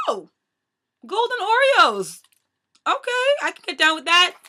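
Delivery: delighted discovery. Retold or imitated. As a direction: re-enact spotting a favourite treat with glee. Acts out spotting cookies, delighted.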